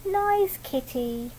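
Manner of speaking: slow, soft cooing to a kitty; cooing child. Acted. Nikki hugging the cat, slow coo. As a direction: coo it while cuddling. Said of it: "picked her up and he hugged her and said".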